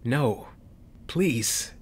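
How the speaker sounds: begging. Acted. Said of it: "Carlston begged".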